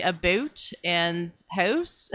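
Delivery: slow, demonstrated Canadian vowels; Canadian accent. Shown as a demonstration. Host showing off words she can't shake, Canadian accent. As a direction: lean into the Canadian "about" and "house". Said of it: "that's my Canadian accent".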